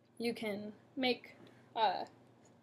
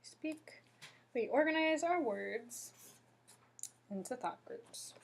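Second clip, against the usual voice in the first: long break after "words" before "into thought groups"; pauses between thought groups; 3 semitones higher, 5 dB quieter than usual. Shown as a demonstration. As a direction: mark each group with a clear pause after "Speak" and "words". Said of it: "where the natural pauses occur".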